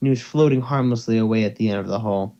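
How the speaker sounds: steady storyteller reading a fanfic aloud; story narration. A narrator's reading. Narrator reading a fanfic to listeners, steady storytelling. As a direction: read it like a dark space story.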